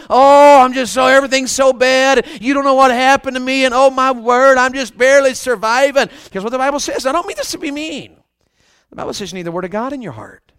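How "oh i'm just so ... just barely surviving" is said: mock moaning, lightly acted; always downhearted person. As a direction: lament like someone forever down, starting on a big groan. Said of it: "you're always down".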